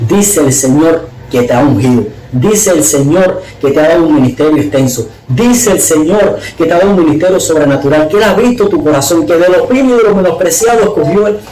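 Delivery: rising, emphatic proclamation in repeated waves; retold prophetic declaration. A woman delivers the Lord's word to him, declaimed with building intensity. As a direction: proclaim it like a prophecy, climbing in pitch.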